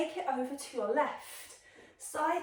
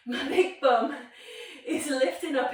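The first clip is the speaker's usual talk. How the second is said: laughing; 6 dB louder than usual. Real, not acted. Laughs at her own pose.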